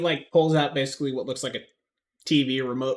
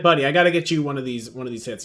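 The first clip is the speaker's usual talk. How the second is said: friendly stoner voice; 3 semitones higher, 8 dB louder, faster than usual. Acted. NPC offering bong.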